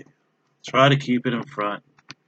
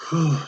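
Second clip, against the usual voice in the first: tired exhale whew; 6 semitones higher than usual. Real, not acted. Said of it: "My arms are burning".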